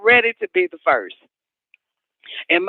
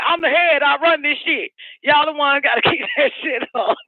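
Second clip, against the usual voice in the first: mock boast; 3 semitones higher than usual. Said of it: "I said".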